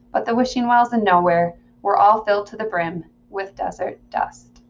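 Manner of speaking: measured audiobook reading; story narration. Acted. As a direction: read the story aloud in the narrator's voice. Reads the novel aloud.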